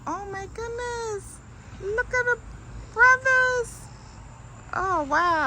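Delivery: excited. Real, not acted. Arrives in Huntsville.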